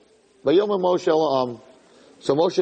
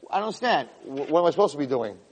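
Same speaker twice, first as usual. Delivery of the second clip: softer, hesitant acted protest; mildly baffled, voice dropping away; bewildered reply; 5 semitones lower, 4 dB quieter, faster than usual. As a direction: answer a scolding in meek confusion. Moshe bewildered after being yelled at.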